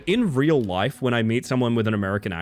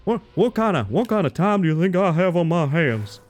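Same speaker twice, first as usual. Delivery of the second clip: put-on over-the-top American accent, pitched higher; 6 semitones higher than usual. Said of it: "had to talk to Closet in American".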